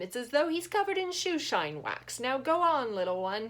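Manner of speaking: put-on high, loud, bubbly old man voice; Albert gushing to Ian about his dog; chatty old organ grinder.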